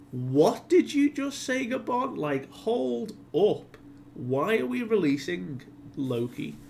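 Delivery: high, loud, drawn-out mock outrage; reeling disbelief. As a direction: stretch it out in high-pitched incredulity. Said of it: "reeling with the fact of what Gabon is asking".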